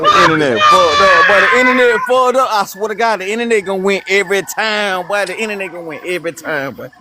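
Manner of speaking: high, loud gloating; gloating shout. Real, not acted. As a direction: crow over him, loud and high. Gloating over a lagging opponent.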